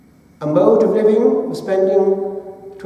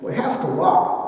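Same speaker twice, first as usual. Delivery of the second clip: put-on posh English accent. A monk advising a schoolboy, calm posh English accent. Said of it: "in his posh English accent".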